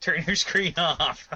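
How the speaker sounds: slowed, spelling it out with a laugh; slow exasperated repeat. Real, not acted. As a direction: repeat it slowly, half laughing. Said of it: "I'm so irritated right now".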